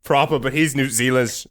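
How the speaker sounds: playful put-on British accent. Mate explains where he is from, British accent. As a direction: claim Britain in a mock-British accent. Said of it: "You guys are getting into British territory".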